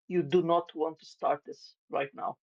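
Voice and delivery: level voice, devoid of any emotion; understated, controlled intimidation; calm, emotionless. Acted. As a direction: deliver the threat calmly and without feeling. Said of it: "calmly, devoid of any, um, emotion".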